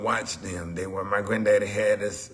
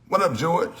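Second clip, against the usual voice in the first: calling out; 11 semitones higher, 8 dB louder than usual. Real, not acted. Greets someone passing by.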